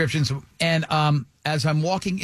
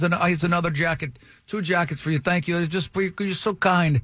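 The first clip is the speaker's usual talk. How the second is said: imitated Italian-accented English. Italian dealer giving jackets to a kind stranger, Italian accent. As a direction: hand out gifts in an Italian accent. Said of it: "that is the accent he used".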